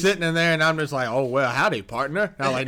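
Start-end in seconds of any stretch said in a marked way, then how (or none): 1.1-2.3 put-on Southern accent. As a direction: greet like a super-country cowboy, lightly. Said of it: "super country accent having motherfucker".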